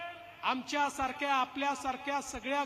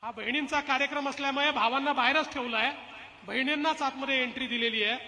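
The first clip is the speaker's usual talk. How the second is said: rally speech; faster than usual. Acted. Political rally speech opening.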